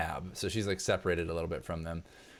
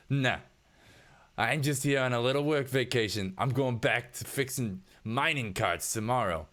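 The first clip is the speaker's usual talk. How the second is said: mocking worker; 6 semitones higher than usual. GM voices blue collar husband.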